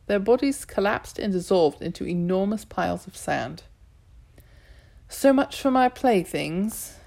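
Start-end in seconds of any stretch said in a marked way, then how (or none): 5.1-7.0 sadly. Acted. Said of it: "the woman said sadly".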